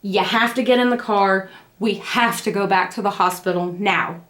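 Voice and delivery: low-key firm retold order; mildly insistent husband. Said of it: "Daddy finally insisted".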